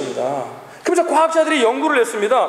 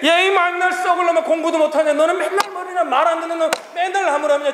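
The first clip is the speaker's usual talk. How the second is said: higher-pitched mock telling-off; imitated parental scolding; 5 semitones higher than usual. Parent berating a child who won't listen, imitated scolding. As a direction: play a parent cursing out a child. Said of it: "부모님들이 욕을 아주 무진하게".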